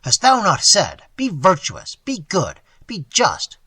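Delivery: loud, scornful tirade; bitter tirade. Acted. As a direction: sneer and rage at the old man.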